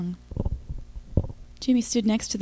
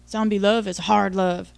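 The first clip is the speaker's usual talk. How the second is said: lightly voiced grunting zombie, a bit louder; 3 dB louder than usual. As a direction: grunt it like a hammy movie zombie. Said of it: "he grunted".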